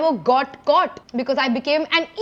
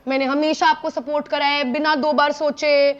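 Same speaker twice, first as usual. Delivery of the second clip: guilt-tripping plea. Retold or imitated. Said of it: "emotionally इतना manipulate करा".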